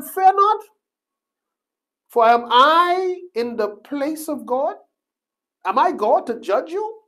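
high, loud, ringing Joseph; Joseph's voice. Acted. Joseph answering his fearful brothers, loud and high. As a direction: speak as the forgiving brother, lifted high. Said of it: "And Joseph said unto them".

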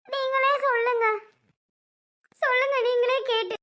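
upset, weeping appeal; crying plea. Acted. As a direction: plead through tears as to a father. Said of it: "ஏன் அழுதுட்டு இருக்க?".

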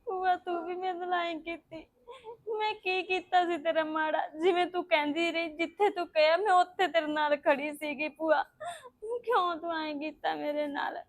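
crying. Acted. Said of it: "ਰੋ ਨਾ, ਚੁੱਪ ਕਰ।".

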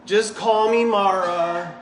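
slow, drawn-out "Mara" with a falling sigh; hammed-up self-pity on "Just call me Mara"; mock melodramatic. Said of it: "So dramatic".

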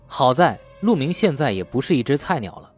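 plain reading voice

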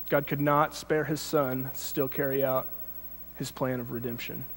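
slowed right down, phrase by phrase; slow, deliberate reread. Shown as a demonstration. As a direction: read it again slowly with pauses. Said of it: "God could not spare his son and still carry out his plan of redemption".

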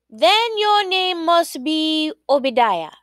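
high-pitched, declaimed guess; eager guess. A narrator's reading. Queen trying a second name, high-pitched guess. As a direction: venture the guess, voice lifted high.

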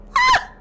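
sudden piercing high scream; scream of fright. Real, not acted. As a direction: shriek in real terror. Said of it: "cosa urli?". (urlo di spavento improvviso)

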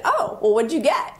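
put-on a lifted, keen question to a child; sing-song interest; bright curious mom. Mother answering daughter eagerly.

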